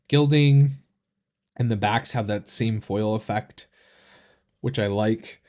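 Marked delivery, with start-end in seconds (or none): 1.6-5.4 talking through hiccups. Real, not acted. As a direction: speak with hiccups. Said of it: "I have the hiccups".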